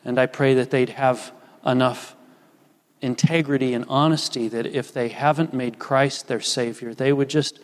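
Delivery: earnest pastoral prayer. Acted. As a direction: pray it over the congregation. Pastor leads communion prayer.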